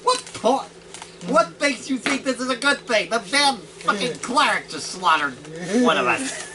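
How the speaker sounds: a kobold who can't believe it; incredulous kobold. Acted. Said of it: "the kobold looking at the Scorpion going".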